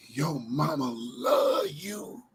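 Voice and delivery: slow, soft, drawn-out Forrest Gump voice; lightly voiced Gump, slow; Forrest Gump quote. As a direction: mimic Gump slowly and gently.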